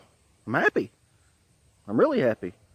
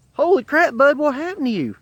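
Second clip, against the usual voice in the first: retold alarm, pitched high and loud; shocked reaction; 10 semitones higher, 3 dB louder than usual. Storyteller seeing his coworker's black eye, shocked reaction. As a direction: blurt it out in startled disbelief.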